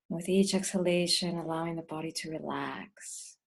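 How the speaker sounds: measured meditation voice with long pauses; guided meditation. Real, not acted. Guide leads the group through breath and intention, guided meditation. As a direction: stretch the key words, leave room to breathe.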